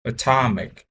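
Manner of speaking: "Atomic" with the second syllable stressed, then falling; careful pronunciation practice. Shown as a demonstration. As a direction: repeat "Atomic" after a model, leaning on TOM. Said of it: "pronunciation of the word".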